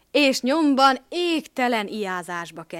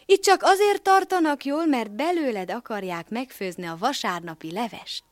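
warning; 4 semitones higher, 4 dB louder than usual. Acted. Cat warns rooster.

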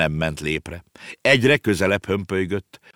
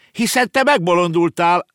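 put-on high, loud boyish disbelief; disbelieving boy; 12 semitones higher, 6 dB louder than usual. Boy to the girl about her whale, loud disbelief. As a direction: exclaim it as if it's madness. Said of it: "mondta a fiú".

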